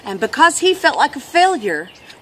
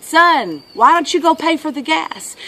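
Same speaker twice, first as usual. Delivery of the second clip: raised-voice father, mild yell; higher, projected fatherly request; dad calling out; 5 semitones higher, 3 dB louder than usual. Retold or imitated. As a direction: imitate a dad calling to his son. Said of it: "the dad yelled out to him".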